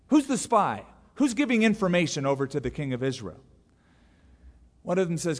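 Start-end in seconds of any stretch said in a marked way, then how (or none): 0.1-3.4 retold demanding king. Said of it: "he goes".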